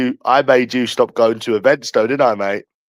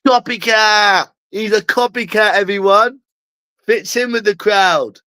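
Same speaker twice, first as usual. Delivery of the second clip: mock scream; 6 semitones higher than usual. Threatening to heckle him at his event, mock scream. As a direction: shout it out to shame him in public. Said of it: "I'm gonna scream".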